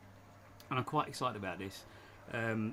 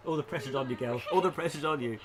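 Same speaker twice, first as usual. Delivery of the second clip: laughing; 6 dB louder than usual. Real, not acted. Teasing Evie before tongue twister.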